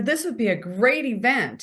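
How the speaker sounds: confident, assured answer. Shown as a demonstration. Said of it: "Do you see the difference in my voice and my tone?".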